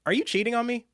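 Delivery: high, loud mock outrage; mock accusation. Acted mock accusation to coffee-carrying coach.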